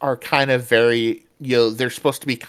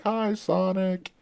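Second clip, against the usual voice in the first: greeting Sonic; 8 semitones higher, 7 dB quieter, slower than usual. Retold or imitated. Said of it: "it's like".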